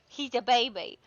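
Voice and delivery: high, loud gushing over a pet. Real, not acted. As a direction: squeal with love for the puppy. Gushing over the in-game dog.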